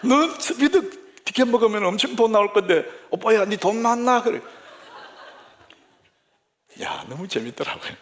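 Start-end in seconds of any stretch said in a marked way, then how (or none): 0.0-4.2 loud, comic Gyeongsang dialect; animated Gyeongsang woman's warning; Gyeongsang woman navigation. Acted. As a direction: nag like a Gyeongsang GPS. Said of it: "그 말을 그렇게 해요".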